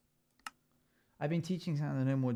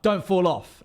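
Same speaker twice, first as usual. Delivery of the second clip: loud, higher mock yell; mock morning yell to yourself; self-yell; 8 semitones higher, 12 dB louder, slower than usual. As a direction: bark it at yourself on waking. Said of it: "You wake up".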